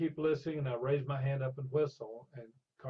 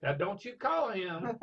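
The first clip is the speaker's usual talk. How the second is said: slow, high, laughing through the warning; slow laughing retelling of the warning; laughing mock warning; 7 semitones higher, 4 dB louder, slower than usual. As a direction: deliver the warning while cracking up.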